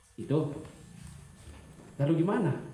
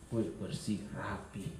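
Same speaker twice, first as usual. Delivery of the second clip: teacher's entrance; 5 semitones lower, 9 dB quieter, slower than usual. Retold or imitated. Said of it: "guru kelas masuk dalam kelas".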